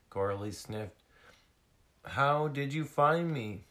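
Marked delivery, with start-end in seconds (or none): 2.0-3.7 high, loud small seal voice; little lost seal. Acted. Lost seal questioning her rescuers, high voice. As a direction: ask as an amazed small seal.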